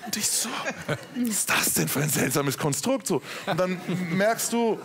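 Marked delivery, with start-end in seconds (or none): 0.0-3.1 laughing. Real, not acted. Retelling a bizarre marital exchange.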